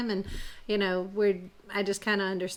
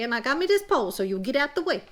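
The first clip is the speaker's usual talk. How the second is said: put-on higher, bolder Cajun girl; little girl voice; 4 semitones higher, faster than usual. Petite Rouge warning the gator, higher Cajun girl voice.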